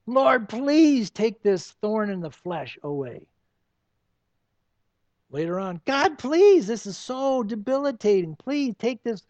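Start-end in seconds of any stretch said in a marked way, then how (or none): 0.1-3.3 slow pleading plea to God; begging prayer. Retold or imitated. Paul begging God to remove the thorn, slow pleading. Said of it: "Begging God is what the word means". 5.8-9.3 higher, louder desperate plea; desperate begging. Retold or imitated. Paul begging God again, higher and louder desperate plea. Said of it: "Begging God is what the word means".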